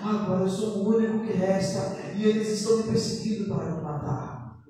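fast, run-on scripture quote; rapid recitation. Retold or imitated. Preacher quoting Elijah's answer to God, recited quickly. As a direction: rattle through the prophet's complaint.

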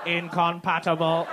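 slow flat robot voice, imitating her. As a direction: say it like a robot, slowly. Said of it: "Why did you say that like a robot?".

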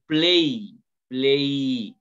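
"play" stretched out slowly on its vowels; teacher slowly sounding out "play"; drawn-out vowel demo. Shown as a demonstration. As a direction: draw out the vowel glide in "play". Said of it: "por la pronunciación".

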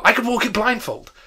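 high, loud, fervent exclamation; fervent cry. Acted. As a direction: cry out with fervour. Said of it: "cried Scrooge with fervour".

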